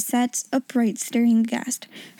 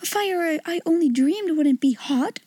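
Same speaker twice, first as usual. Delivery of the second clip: cried out; 5 semitones higher than usual. Acted. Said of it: "she cried".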